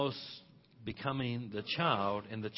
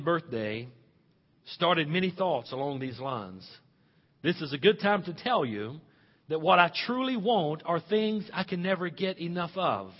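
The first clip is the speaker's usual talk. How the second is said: letter read a little higher, tender; reading an old mother's letter; 6 semitones higher, 7 dB louder than usual. Retold or imitated. Listen to this.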